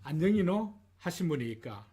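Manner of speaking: lightly imitated Japanese accent; mock Japanese speaker's Korean. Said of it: "이렇게 발음합니다". (일본인 말투 흉내)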